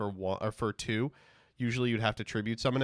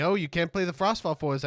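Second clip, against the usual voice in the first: mocking critics; 7 semitones higher, 5 dB louder than usual. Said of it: "They tell me".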